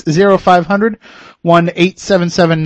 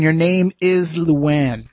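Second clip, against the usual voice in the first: slow mock psychic reveal; drawn out like a stage psychic; fortune teller; much slower than usual. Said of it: "Wait, I'm getting a psychic impression".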